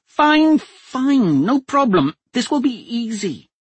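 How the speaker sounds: a hostage duchess coolly taking charge; steady duchess voice. A narrator's reading. Captive duchess telling the men to make a deal, steady and firm.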